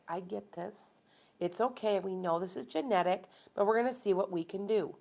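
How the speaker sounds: mildly soothing female doctor impression; understanding doctor. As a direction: reassure a patient gently, as a retold quote. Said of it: "Wow, what an attitude difference".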